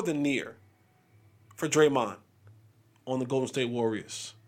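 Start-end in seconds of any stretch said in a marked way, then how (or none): none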